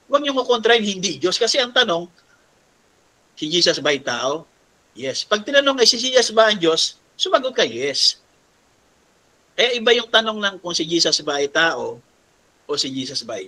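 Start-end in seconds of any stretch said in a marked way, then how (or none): none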